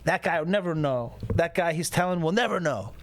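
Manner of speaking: usual speaking voice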